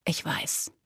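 very soft, low whisper; hushed, voiceless reply. A narrator's reading. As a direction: whisper it to her gently. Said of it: "flüsterte Gabe".

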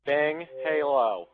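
slow flat robot voice. Real, not acted. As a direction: speak like a robot. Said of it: "talk like a fucking robot".

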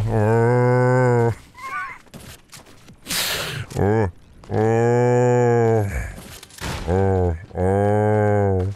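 hooting "Oh" like a mating call; bald mating call. Pretend. Streamer showing off the silly bald call, drawn-out hoot. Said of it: "the noise bald people make".

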